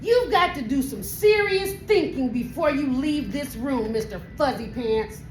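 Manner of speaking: lecturing mother. Acted. Mother sending kitten to think in his room, lecturing. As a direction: lecture the kitten like a fed-up mama. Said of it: "The lecture went on and on".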